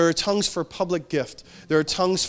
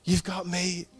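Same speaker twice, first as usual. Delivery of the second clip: a softer repeat of the line; quiet tender echo, not a true whisper; 2 semitones higher, 5 dB quieter, slower than usual. Retold or imitated. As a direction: let it drop to a gentle hush. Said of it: "the Holy Spirit would whisper".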